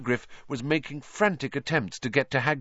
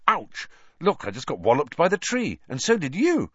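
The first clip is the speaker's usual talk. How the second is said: animated, higher-pitched reaction; lightly voiced Harry; 5 semitones higher than usual. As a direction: react with a pained, lively exclamation. Harry watches himself get hit.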